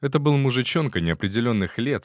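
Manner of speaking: plain reading voice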